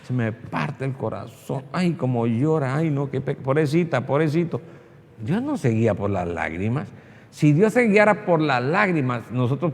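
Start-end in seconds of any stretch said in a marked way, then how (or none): 0.0-4.6 soft, lower, exaggerated sympathy; mock pitying. God supposedly seeing someone cry, mock pitying. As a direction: imitate someone cooing with pity over a crier. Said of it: "Dios apenas lo ve llorando, dice".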